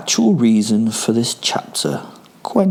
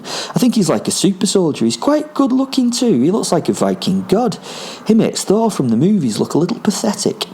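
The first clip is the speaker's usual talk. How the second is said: excitable spirit companion Fen; 4 semitones higher than usual. Acted. Fen excitedly sizing up a huge opponent for Will, swooping excited character voice. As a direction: gush and gloat in big melodic swoops. Posit Fen reports telepathically to narrator.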